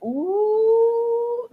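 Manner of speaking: high dismayed gasp; high shocked ooh. Retold or imitated. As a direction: gasp at the twist. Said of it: "I was just like".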